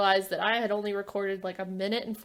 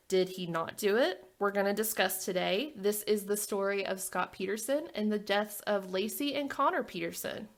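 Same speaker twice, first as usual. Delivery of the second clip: softer, measured episode introduction; true-crime narration; 6 dB quieter than usual. Real, not acted. Host introduces the Peterson story to listeners, soft measured narration. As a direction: pose it softly, then announce the story. Closes scripted case introduction.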